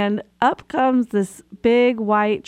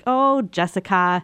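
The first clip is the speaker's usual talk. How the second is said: rueful head-shake; slower than usual. Retold or imitated. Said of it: "I said it in that tone of voice and I shook my head".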